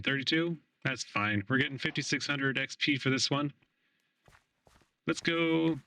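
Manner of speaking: digitally altered voice changer sound. Real, not acted. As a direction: voice run through a voice changer. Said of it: "I'm gonna turn on my voice changer".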